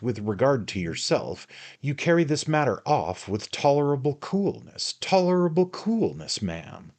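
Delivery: high, loud biting sarcasm; jealous sarcastic accusation; bitter sarcasm. Acted. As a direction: sneer the word coolness at her.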